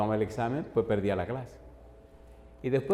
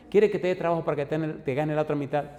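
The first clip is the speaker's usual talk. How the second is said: eager offer; 4 semitones higher than usual. Retold or imitated. Mission president eagerly offering the young preacher help, quick and high. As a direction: rattle off the offer like a generous boss.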